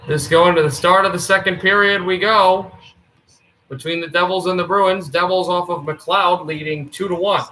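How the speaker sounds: lively sportscaster opening the period; play-by-play. Acted. Streamer calling the game for his viewers, announcer voice. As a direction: call it like a TV hockey announcer.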